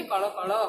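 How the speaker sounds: कड़ो कड़ो with flapped ड़ and a rounded o; Odia pronunciation. Shown as a demonstration. Teacher showing students the Odia form of कलकल. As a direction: say कड़ो कड़ो the Odia way, lightly laughing. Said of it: "Odia में क्या बोलेंगे".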